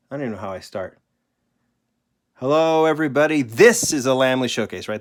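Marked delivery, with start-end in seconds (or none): 2.3-4.9 bright, higher host greeting; friendly intro voice. Shown as a demonstration. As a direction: greet the viewers like a cheerful host. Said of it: "That's what I typically say".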